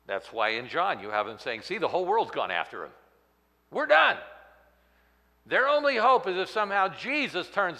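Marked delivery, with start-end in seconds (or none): 1.6-2.9 Pharisees in despair. Acted. 3.7-4.2 high, loud cry of defeat; despairing cry. Acted. Pharisees admitting defeat, high loud despairing cry.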